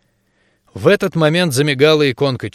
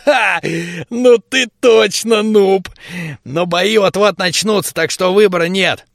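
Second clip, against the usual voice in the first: squeaky gnome; 5 semitones higher than usual. A narrator's reading. Gnome laughs at the noob.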